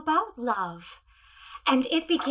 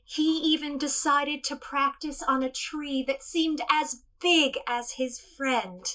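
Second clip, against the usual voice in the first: gentle storybook narration; storytelling. Acted. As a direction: tell it to children, unhurried. Tells tiny T-Rex story.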